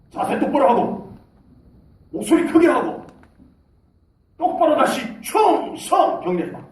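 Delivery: mock drill sergeant yelling orders; scolding officer. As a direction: dress down the private. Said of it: "기합받습니다".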